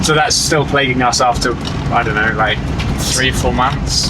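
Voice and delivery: talking while bouncing over bumps; on a bumpy road. Real, not acted. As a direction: voice jolted by bumps. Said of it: "Sorry, the bumpy in Calgary".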